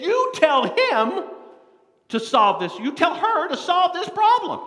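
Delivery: loud, high commanding voice; demanding Martha. Acted. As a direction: order him to fix it.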